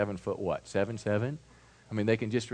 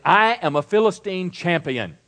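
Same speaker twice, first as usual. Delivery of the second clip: loud, higher boastful challenge; shouting giant; 6 semitones higher, 7 dB louder than usual. Retold or imitated. Preacher voicing Goliath taunting the Israelites, loud. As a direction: bellow it like a champion taunting the army. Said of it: "this voice was shouting".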